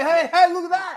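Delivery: high, loud mock call to the screen; excited audience call. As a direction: point and call out like a horror-film viewer. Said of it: "we're sitting there going".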